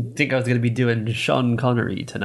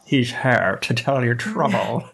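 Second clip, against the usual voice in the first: ghost voice; 3 semitones higher, slower than usual. Pretend. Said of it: "The ghost of Sean Connery here".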